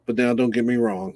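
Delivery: usual speaking voice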